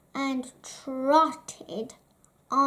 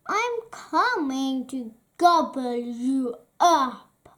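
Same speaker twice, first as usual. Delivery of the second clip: troll threat. Acted. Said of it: "roared a terrible voice".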